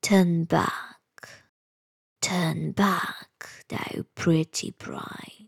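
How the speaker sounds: slow whispered warning, repeated; hushed, eerie bird's call again; bird's warning cry. Acted. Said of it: "And again it cried".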